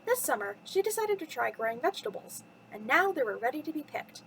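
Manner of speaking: lively storytime narration with swooping pitch; children's story reading. Acted. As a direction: read it to little listeners, lilting from phrase to phrase. Reads a children's bedtime story.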